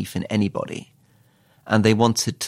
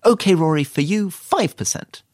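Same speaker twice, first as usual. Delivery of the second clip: higher, louder mock minister with odd pauses; Liz Truss; 8 semitones higher, 3 dB louder than usual. Minister haggling with a colleague, high mock impression. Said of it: "she puts pauses in".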